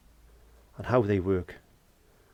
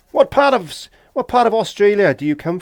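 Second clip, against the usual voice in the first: retold question; 10 semitones higher, 12 dB louder than usual. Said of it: "Somebody said the other day".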